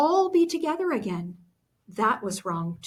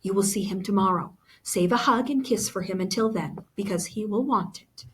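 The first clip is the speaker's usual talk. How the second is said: confident mother. Acted. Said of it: "Mama spoke with confidence".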